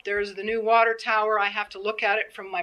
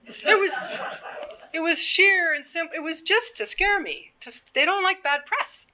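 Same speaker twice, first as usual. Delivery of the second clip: laughing while talking; 9 semitones higher than usual. Real, not acted.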